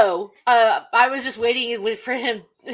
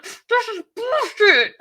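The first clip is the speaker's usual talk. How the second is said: slow, higher mock-complaint; grumbling quote; 8 semitones higher, 3 dB louder, slower than usual. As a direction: drag it out as a mouth-stuffed gripe. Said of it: "he's like".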